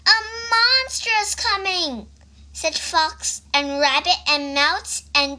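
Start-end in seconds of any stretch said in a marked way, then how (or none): 0.1-2.1 alarmed chorus. A narrator's reading. Animals warn Baby Bug.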